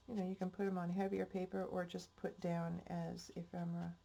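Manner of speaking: blocked-nose voice; stuffy nose. Real, not acted. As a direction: talk through a stuffy nose. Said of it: "I'm sorry if I sound stuffy".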